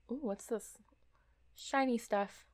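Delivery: unvoiced curious whisper. Real, not acted. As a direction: whisper over something shiny. Whispering at a discovery.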